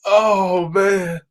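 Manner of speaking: laughing oh man; crying laughing. Real, not acted. Host still laughing at the clip, crying laughing. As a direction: still cracking up. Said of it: "I'm crying over here".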